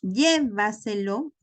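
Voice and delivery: llévaselo slowly, stress on LLÉ; stress fourth from end. Shown as a demonstration. Teacher showing a sobresdrújula, slow stress on LLÉ in llévaselo. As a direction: lean on the first syllable, LLÉ-va-se-lo, drawn out. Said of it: "sería el cuarto lugar empezando del final".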